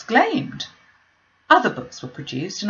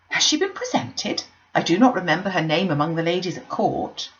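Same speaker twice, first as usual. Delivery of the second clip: lightly voiced gushing matron; eager, chattering mother; Mrs Bennet.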